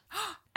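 sharp high gasp of shock. Retold or imitated. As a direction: gasp like the screen just went black. Shocked reaction to the ending.

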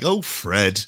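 mock Fred West accent. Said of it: "you've done a better accent than".

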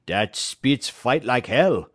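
put-on grudging admiration in a French-Canadian accent; French-Canadian courier. Perrault surveying Spitz's wounds, French-Canadian accent. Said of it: "said Perrault".

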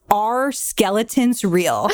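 slow, spaced-out question; drawn-out delivery at normal pitch; retold earnest question. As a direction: quote it slowly, as if pondering deeply. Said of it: "he asked me".

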